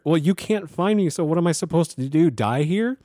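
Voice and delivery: retold pissed-off retort. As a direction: re-enact an indignant challenge to the dispatcher. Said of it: "pissed. I was like".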